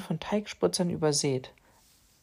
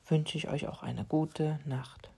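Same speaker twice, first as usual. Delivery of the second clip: slow, softer goodnight whisper; 6 dB quieter, slower than usual. Real, not acted. Goodnight to children.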